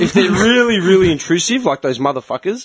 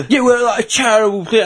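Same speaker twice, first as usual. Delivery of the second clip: higher-pitched mock collector; charity backpacker impression; 5 semitones higher than usual. Charity collector explains himself to a sceptical passer-by, imitated higher voice. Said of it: "when you're doing his voice".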